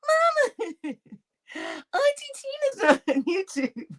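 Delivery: put-on very high, slow little kid voice; high slow kid announcing auntie; child's voice. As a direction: call out like a small child. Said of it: "she gave her her".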